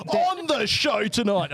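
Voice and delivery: high, drawn-out show opener; show intro. Pretend. Cutting in to open the show, announcer style.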